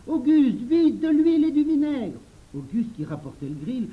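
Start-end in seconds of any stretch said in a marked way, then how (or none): 0.1-2.2 high, loud hurrying shout; urgent shouting. Acted. Children hurry Auguste for oil and vinegar, shouting urgently. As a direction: yell for it right now.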